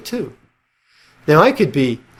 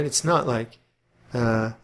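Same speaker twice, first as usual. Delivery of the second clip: normal talking voice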